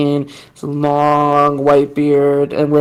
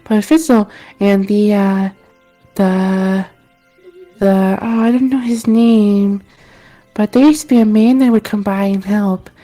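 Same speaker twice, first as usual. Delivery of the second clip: lightly raised, wistful villager; a hint of a dreamy local; 5 semitones higher than usual. GM voices villager character.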